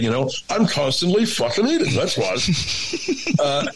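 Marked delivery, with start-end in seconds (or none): 0.5-2.4 lightly imitated chef with cream cheese in his mouth; a hint of a fat chef's full-mouthed voice; mock chef, talking round food; Olin Dick. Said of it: "He sounded like he had a wad of cream cheese".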